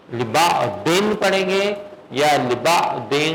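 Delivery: slow sung-out لبا دن twice, with and without nasal hum; teacher asks the class which reading is right; contrasting readings. Shown as a demonstration. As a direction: chant both readings slowly. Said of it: "تو اب مجھے بتائیں".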